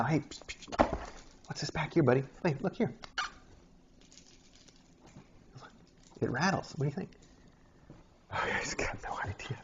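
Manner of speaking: soft, hushed coaxing to a kitten, near a whisper; hushed kitten talk. Real, not acted. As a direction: lean in and coax the kitten quietly.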